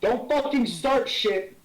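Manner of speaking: drawn-out, exasperated telling-off; stern warning. Acted. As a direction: warn them off, word by word. In-character warning to companion.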